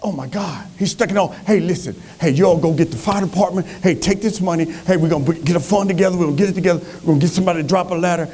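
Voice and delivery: Rotarian organizer. Acted. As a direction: rattle off orders to organize a rescue. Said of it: "they see a Rotarian walk by".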